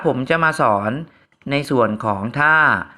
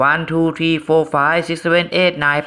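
very slow, drawn-out counting; much slower than usual. Shown as a demonstration. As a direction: count each number out slowly. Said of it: "เราจะให้จังหวะในการนับ".

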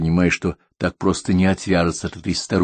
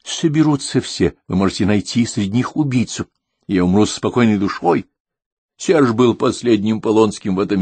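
lightly voiced old woman, entranced; a hint of a dreamy old woman begging for help; old lady voice; 3 semitones higher than usual. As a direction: plead like an old lady half in a trance.

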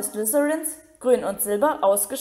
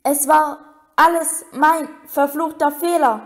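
Hagrid's big voice, louder and higher, breaking into sobs; sobbing; 5 semitones higher, 5 dB louder than usual. A narrator's reading. Hagrid to Harry at his bedside, sobbing in guilt. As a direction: blurt it out through tears. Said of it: "schluchzte er".

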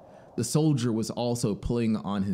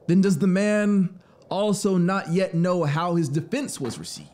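shocked traveler; 9 semitones higher, 6 dB louder than usual. A narrator's reading. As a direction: ask it in growing alarm. Traveler presses the officer.

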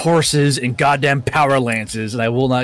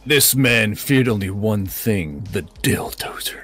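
mock trailer voice; 3 semitones lower, slower than usual. Mock movie trailer narration.

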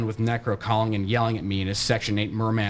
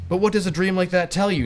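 fake dad voice; 7 semitones higher, 3 dB louder than usual. A narrator's reading. Fake dad lecturing Nate.

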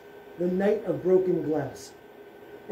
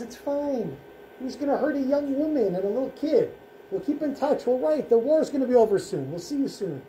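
high-pitched, lightly voiced motherly reassurance; reassuring mother; 5 semitones higher than usual. Mother reassures her son at parting, gently reassuring. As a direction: play down the worry in a higher voice.

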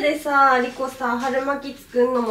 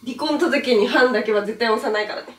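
louder, defiant soap-opera wife; melodramatic wife; 6 dB louder than usual. Pretend. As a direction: vow it like a TV drama heroine. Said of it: "ドラマの見過ぎやろ". (昼ドラ風に強気で)

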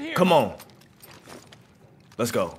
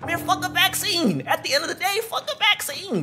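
laughing defiance; 12 semitones higher, 4 dB quieter than usual. Real, not acted.

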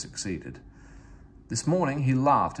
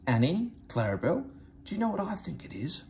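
loud stage whisper; 7 semitones higher than usual. A narrator's reading. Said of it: "whispered Thomas loudly".

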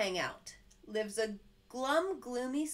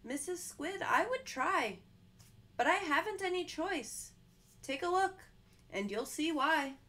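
helpless fish; 5 semitones higher than usual. Acted. Fish telling Mister Jelly it isn't up to him, mildly pleading. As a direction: plead it, sorry but stuck.

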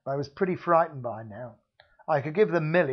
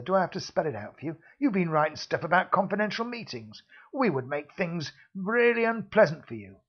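a hint of menace, quicker; menacing; 3 semitones higher than usual. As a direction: threaten him coolly. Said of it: "his voice dripping with menace".

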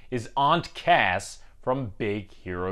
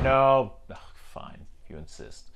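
feigned reluctance. Acted. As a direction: sigh and cave in, half-whispered. Host pretends to give in.

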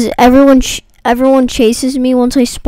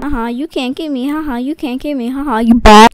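teasing taunt. Real, not acted. Taunting chaser quietly.

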